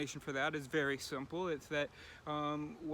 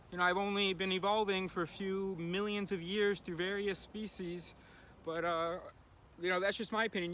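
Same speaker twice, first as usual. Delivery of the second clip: higher, mock-polite inner voice; the unconscious mocking the neocortex, high sarcastic voice; 3 semitones higher than usual. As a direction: play your unconscious being sly and sarcastic. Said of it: "Your unconscious doesn't say".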